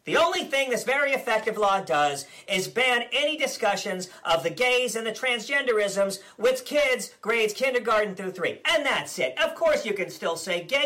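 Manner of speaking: blustering politician impression, smug and combative; Ron DeSantis parody. Comedian as DeSantis ranting at the press, blustering. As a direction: play the governor as a cocky blowhard.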